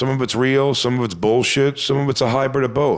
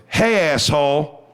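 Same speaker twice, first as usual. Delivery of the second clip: hostile greeting; 4 semitones higher, slower than usual. Retold or imitated. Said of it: "I knew she meant me".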